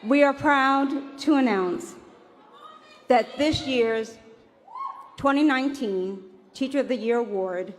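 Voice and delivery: award announcer. Acted. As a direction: build suspense before the name.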